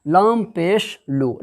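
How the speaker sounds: slow, drawn recitation of letters; spelling out syllables. Shown as a demonstration. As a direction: sound out each letter slowly like a Quran teacher. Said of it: "खींच कर पढ़ेंगे".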